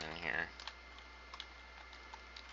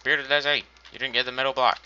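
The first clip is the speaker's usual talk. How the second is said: mock yell; 5 semitones higher, 5 dB louder than usual. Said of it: "Somebody was probably screaming at me".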